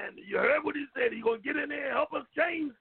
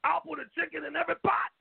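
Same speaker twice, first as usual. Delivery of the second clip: quoted slogan; 3 semitones higher than usual. Retold or imitated. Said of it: "'Cause like I said".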